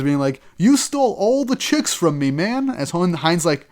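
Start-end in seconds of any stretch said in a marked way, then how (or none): 0.6-2.7 high, mock tearful whine; teary outburst. Cougar to Hein, a hammed-up teary high complaint. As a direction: whine it like a jilted guy near tears. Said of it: "pisses off Cougar to the point of tears".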